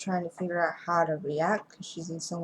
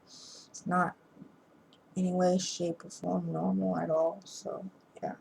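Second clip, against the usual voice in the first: sleepy words through a yawn; yawning while talking; 5 dB quieter than usual. Real, not acted. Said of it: "Sorry for all the yawning".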